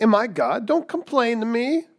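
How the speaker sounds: Jacob snapping at his wife in anger; mock-angry husband; indignant Jacob. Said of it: "He's like".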